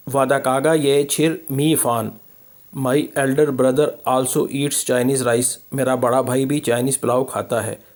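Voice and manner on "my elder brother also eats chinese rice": slow model reading. Shown as a demonstration. Teacher models English slowly.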